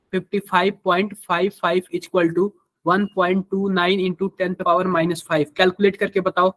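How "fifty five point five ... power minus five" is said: very slow, measured reading of figures; slow dictation. Real, not acted. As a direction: dictate the equation piece by piece. Writing out the equation while speaking. (धीरे-धीरे समीकरण लिखवाते हुए)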